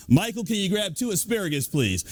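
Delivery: playful projected announcer request; put-on show-host voice; thrown radio voice. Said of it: "You can throw your voice".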